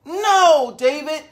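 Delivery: high, loud scolding from mom. Acted. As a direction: scold him like his cross mom. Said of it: "David's mom always said".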